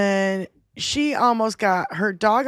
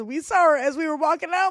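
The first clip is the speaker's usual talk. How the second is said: normal talking voice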